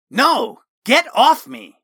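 high, loud furious shout. Acted. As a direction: shove him off, yelling.

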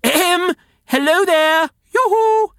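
hollering in a forest. Acted. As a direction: call out to someone far away. Calling out the window.

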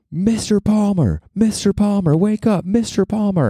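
high, slow, drawn-out wake-up call; counselor yelling wake-up. Retold or imitated. Camp counselor waking the new hire at six, high drawn-out call. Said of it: "this man screaming in my ear".

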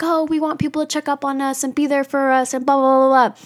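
mocking whine. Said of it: "we sit there and we're like".

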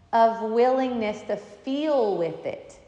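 usual speaking voice

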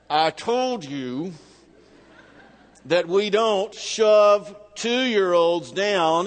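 slow, controlled words pushed out through gritted teeth. Retold or imitated. Father scolding the little girl, slowly through gritted teeth. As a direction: hold the anger in and grind it out slowly. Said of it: "through gritted teeth".

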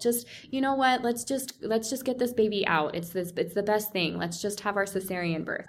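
imitated soothing supporter; mock-sympathetic coaxing. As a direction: gently coax someone to give in, as retold. Imitates supporters urging an easier option.

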